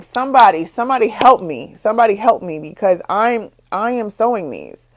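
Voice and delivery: desperate plea. Retold or imitated. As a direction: call out like you're drowning in trouble. Pleading for help with Etsy.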